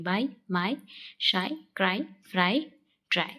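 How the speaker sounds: बाय, माई, शाई ending in 'eye'; final 'eye' sound demo. Shown as a demonstration. Teacher showing Y as a vowel, 'eye' ending in माई and ट्राई. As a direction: list क्राई, फ्राई, ट्राई with a clear final 'eye'. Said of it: "बाय स्वयं ही स्वर की मात्रा बनता है".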